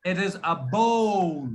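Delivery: bowl said as a single slow syllable; one-syllable bowl. Shown as a demonstration. Teacher corrects the student with a slow one-syllable bowl. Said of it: "it should be bowl".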